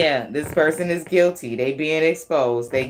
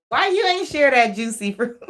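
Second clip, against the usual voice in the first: laughing whine; 7 semitones higher than usual. Pretend. Repeat while laughing.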